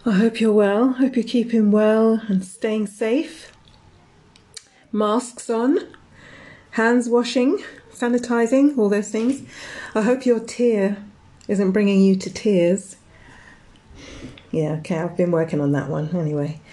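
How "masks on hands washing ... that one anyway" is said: slightly out of breath; breathless after rushing in. Real, not acted. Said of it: "sorry, I'm out of breath".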